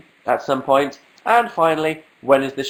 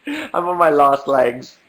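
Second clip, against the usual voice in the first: mock dying; slower than usual. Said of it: "I'm dying, guys".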